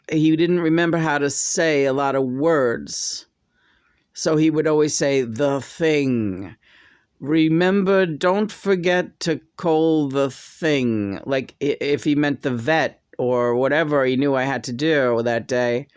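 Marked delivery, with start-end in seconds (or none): 5.2-11.2 halting speech. Retold or imitated. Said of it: "Just very stilting".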